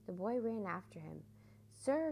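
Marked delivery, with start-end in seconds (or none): 1.7-2.1 high, raised urgent call. A narrator's reading. Boy calls after the piper, calling out. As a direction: call after him, louder and higher. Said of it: "he called".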